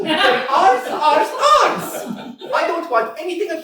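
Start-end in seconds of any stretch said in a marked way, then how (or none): 0.0-2.1 laughing shout. Acted. Natalia insisting the meadows are hers, loud and laughing. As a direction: insist while a laugh breaks through.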